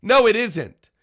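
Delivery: sharp, loud objection; real annoyance at the clip; angry interruption. Real, not acted.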